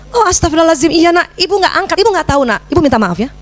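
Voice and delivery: immediate apology. Acted. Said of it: "Wah, langsung begitu".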